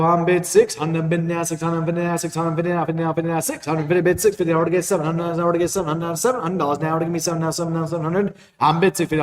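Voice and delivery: rapid rolling bid chant; auctioneer. Acted. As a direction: rattle off the bids like an auctioneer.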